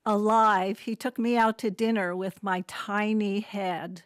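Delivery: measured poetry recital, pausing between lines; poem reading. Acted. Poet reads poem about aging to the audience, measured recital. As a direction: read it out as verse, phrase by phrase.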